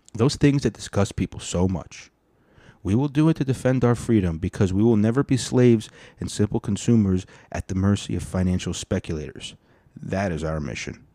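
emphatic speech reading, punched key words; rally speech. Acted. Host reading a politician's speech to listeners, oratorical delivery.

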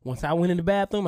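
ordinary delivery

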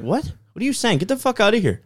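high pitched angry retort; angry dad. Retold or imitated. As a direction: snap at the stranger. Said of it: "my dad's like".

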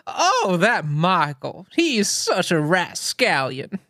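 Southern mom impression. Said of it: "my Southern mother".

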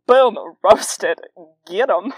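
loud gleeful shout; cheering. Real, not acted. Host cheering her teen self's comeback, shouting gleefully. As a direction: crow over the roast like a hype man.

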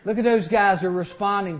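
a hearty high laugh rolling into the words; delighted laughter. Acted. God in heaven, laughing with delight.

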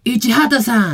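stage call to the crowd; retold loud call. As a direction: call it out for an audience response. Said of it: "大声で言ってくださいね".

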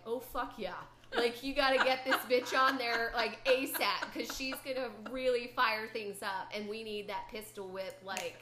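mock-loud rallying cry; excited yes. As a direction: hype them up like you're pounding the table. Retold excited vote at committee.

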